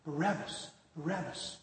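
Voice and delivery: hushed echo of a distant crowd; softly, as if overheard from a prison cell; muted, subdued chant; heard from cell. Acted. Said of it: "here you hear in your cell".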